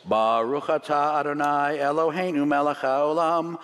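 slow, measured prayer recitation; blessing spoken over bread at the table; Hebrew blessing. Shown as a demonstration. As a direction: intone the blessing reverently, slowly. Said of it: "we say the blessing over it".

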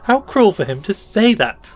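high, loud wounded exclamation; aloud to herself. A narrator's reading. Girl complains of the stranger, as though aloud to herself. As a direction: voice the dismay out loud to nobody. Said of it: "as though speaking aloud to herself".

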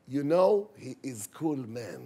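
slow cool-dude line; cool guy. Pretend. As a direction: lean back and stretch it out. English aside, slow cool delivery.

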